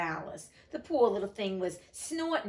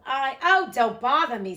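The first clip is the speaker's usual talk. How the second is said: loud annoyed outburst; irritated snap; 3 semitones higher, 8 dB louder than usual. A narrator's reading. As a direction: brush her off impatiently. Duchess snaps at Alice.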